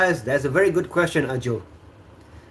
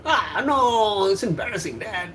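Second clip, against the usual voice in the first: higher, giggling embarrassed whine; mock-embarrassed kid laughing; laughing protest; 7 semitones higher than usual. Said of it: "I said".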